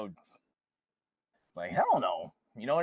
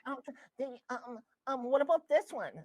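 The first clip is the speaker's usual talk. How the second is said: coaxing parent; 9 semitones higher than usual. Retold or imitated. Imitating soft permissive parent.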